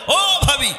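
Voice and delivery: sweet-voiced call. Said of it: "এইভাবে এত সুন্দর মিষ্টি সুরে কথা কয়".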